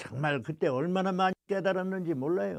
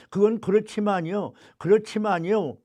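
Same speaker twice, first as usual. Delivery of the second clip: whiny objection; 3 dB louder than usual. Retold or imitated. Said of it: "또 이의가 붙더라고요".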